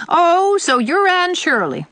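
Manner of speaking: high, loud, drawn-out greeting; disagreeable old aunt. Acted. Old aunt greeting Anne on being introduced, disagreeable. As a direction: size her up in a high, sour old voice.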